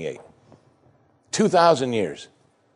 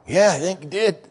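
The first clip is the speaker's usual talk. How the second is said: stunned brother; 8 semitones higher than usual. Acted. Brother answering in disbelief.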